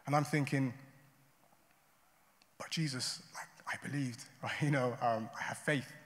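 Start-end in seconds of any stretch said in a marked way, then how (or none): 2.6-5.9 hushed, halting plea to Jesus; understated grief, much softer; retold shattered pleading. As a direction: recall a bewildered prayer, softly and brokenly. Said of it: "in tears, my entire world shattered".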